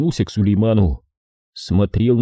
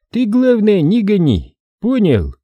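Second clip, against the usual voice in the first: louder, higher stern order; stern warning; 11 semitones higher, 4 dB louder than usual. A narrator's reading. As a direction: press the warning hard. Сулейман грозно наставляет. (строгое предупреждение)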